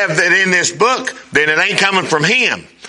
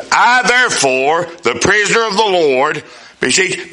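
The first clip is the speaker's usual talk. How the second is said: reading aloud. Shown as a demonstration. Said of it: "I'm reading out loud".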